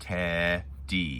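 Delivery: robotic, syllable by syllable, counting the beats. Leading a group in counting syllables, saying the word like a robot. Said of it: "let's say it like a robot".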